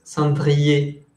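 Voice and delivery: "cendrier" said slowly and carefully; slow teacher demo of "cendrier"; slow correct model. Shown as a demonstration. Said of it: "es cendrier".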